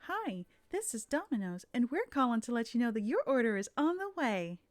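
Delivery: lightly voiced pleasant phone rep; sweet scripted Domino's greeting; customer service voice. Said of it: "did that voice because I've never heard you sound so pleasant".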